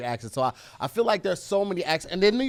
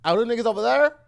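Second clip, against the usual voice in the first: heavy rolled R on there; Saint Louis accent; 7 semitones higher, 6 dB louder, faster than usual. Retold or imitated. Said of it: "I like it when you do that".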